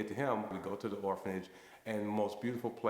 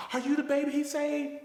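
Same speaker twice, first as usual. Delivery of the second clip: much higher and louder, amazed; rising amazement; 6 dB louder than usual. Retold or imitated. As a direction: ask it as the truth dawns on her. Old woman realizing on phone.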